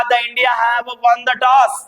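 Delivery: The India have won the toss, drawn out slowly; quoted example, slow. Shown as a demonstration. Teacher quoting a cricket line, slowly. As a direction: read the example sentence slowly. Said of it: "आपने ये भी सुना होगा".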